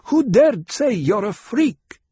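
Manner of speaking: loud, slow, fiercely protective; fierce protectiveness. A narrator's reading. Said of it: "fierce note of protectiveness".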